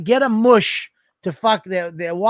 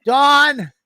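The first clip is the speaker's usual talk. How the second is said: pained call, pitched up; 6 semitones higher, 4 dB louder than usual. Retold or imitated. Husband on the ice calling his wife, pained. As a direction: call for help without saying so.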